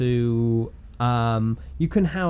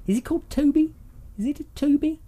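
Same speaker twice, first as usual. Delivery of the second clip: stage medium voice; 12 semitones higher, faster than usual. Pretend. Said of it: "you'd make a good, uh, stage medium".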